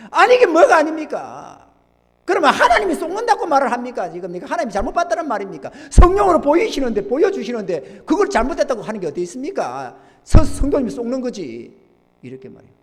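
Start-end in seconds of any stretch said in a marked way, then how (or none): 0.1-11.7 loud, high indignant rebuke; re-enacted scolding. Pastor re-enacts berating a protesting church member, scolding. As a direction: thunder back at the objection. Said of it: "제가 막 호통을 치는".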